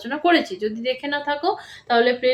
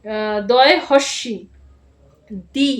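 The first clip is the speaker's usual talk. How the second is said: spelling out; 3 semitones lower, 4 dB louder, slower than usual. Shown as a demonstration. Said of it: "আমি কিভাবে বলছি".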